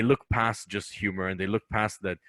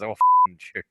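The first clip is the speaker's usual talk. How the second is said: put-on Indian accent; 9 dB louder, slower than usual. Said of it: "the Indian accent just comes out".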